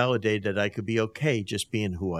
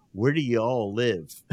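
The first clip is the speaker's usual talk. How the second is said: louder, playful Southern drawl; imitated Southern accent; 3 semitones higher, 5 dB louder than usual. Southern wife asking Detroit neighbors where they live, imitated Southern accent. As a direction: put on the wife's Southern twang for fun. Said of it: "she's a real Southern gal".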